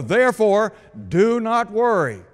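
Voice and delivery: rising pulpit insistence on "do not worry"; emphatic command. Shown as a demonstration. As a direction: build to the peak of the repetition. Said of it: "Jesus emphatically states".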